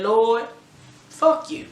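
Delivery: sharp cry up at the Lord, half-voiced anger; angry at God. Woman cursing God after waking from pills, retold anger. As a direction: lash out at heaven in retold fury. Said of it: "I was mad".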